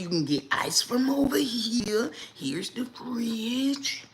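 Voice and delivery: hushed whisper, mimicking the employee; mock secretive whisper of the staff member; whispered tour guide. Employee showing the campsite around.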